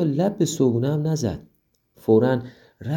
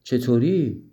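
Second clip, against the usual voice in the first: surprised; 3 semitones higher, slower than usual. Acted. Child amazed her friend has a secret, surprised. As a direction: jump up in surprise, then ask. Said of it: "مریم تعجب کرد و گفت".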